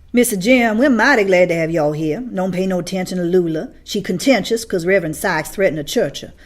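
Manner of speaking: loud, hearty welcome in a different voice; the garbage collector greeting the children; friendly man. A narrator's reading.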